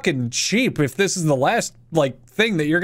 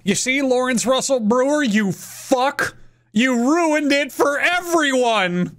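higher, slow accusing yell; indignant yell; 6 semitones higher than usual. Real, not acted. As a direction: call him out for ruining it. Berating the man who ruined it.

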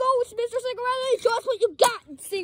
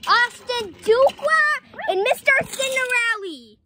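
mock race announcer. Child announces the final's racers, mock announcer. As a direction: announce the names with showy weight.

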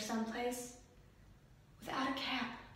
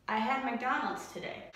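low pitched. Shown as a demonstration. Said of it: "what was the low for today".

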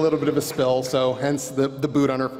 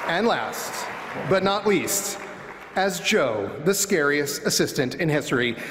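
pro wrestler announcer voice. Acted. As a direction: save the loudest for last. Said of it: "That's how you do it".

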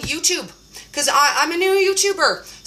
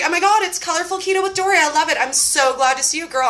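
fast, gushing intro like a show host; bubbly greeting; excited announcement; 2 semitones higher, faster than usual. Retold or imitated. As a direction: announce her like a celebrity. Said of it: "Say it again like it's my real name".

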